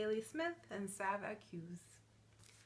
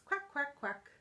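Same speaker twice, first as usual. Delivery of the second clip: high, short quacks; happy duckling quack; 3 semitones higher than usual. Acted. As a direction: quack lightly like a happy little duck. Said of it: "When I'm feeling happy, I say".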